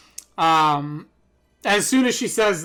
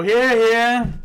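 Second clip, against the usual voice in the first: raised, higher hear hear of a crowd; crowd chorus; 6 semitones higher, 8 dB louder than usual. Acted. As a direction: call it out like a whole chamber agreeing. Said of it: "the crowd all just go".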